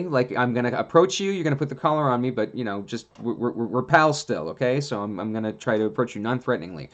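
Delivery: a gentle dog calming its cross owner; imagined dog's voice. Retold or imitated. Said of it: "darndest to try and say".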